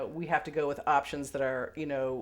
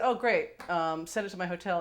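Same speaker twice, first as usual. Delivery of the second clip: quoting herself; 4 semitones higher than usual. Retold or imitated. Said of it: "But I said".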